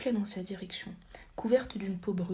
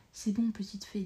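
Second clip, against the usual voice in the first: softly. Acted. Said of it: "dit-il doucement".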